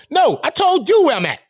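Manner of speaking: high, forceful indignant retort; real exasperation; angry insistence. Real, not acted. Angry rant defending his name.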